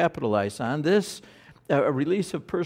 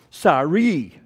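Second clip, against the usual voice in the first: grudging sorry; 6 dB louder than usual. Retold or imitated. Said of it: "how that inflection gets there".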